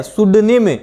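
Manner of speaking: सुडनिम said with no p sound, starting on s; silent p pronunciation. Shown as a demonstration. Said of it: "पी लगा हुआ है तो सुडनिम ही इसका pronunciation होगा".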